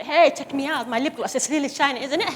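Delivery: a hint of a valley-girl American accent. Mother voicing a Barbie in English, hint of American accent. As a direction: lightly play a sassy American doll. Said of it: "as a American accent".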